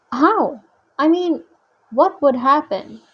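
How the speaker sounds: a touch of awe; wondering question. Acted. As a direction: ask it with mild astonishment. Thalia asks in wonder.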